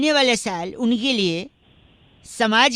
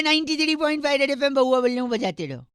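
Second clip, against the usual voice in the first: radio sign-off; faster than usual. Acted. Radio prank call sign-off jingle.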